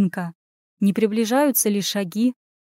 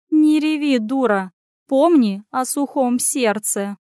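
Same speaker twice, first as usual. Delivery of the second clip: scolding cat; 3 semitones higher, slower than usual. Acted. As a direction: snap at her to stop crying. Cat scolds crying Anya.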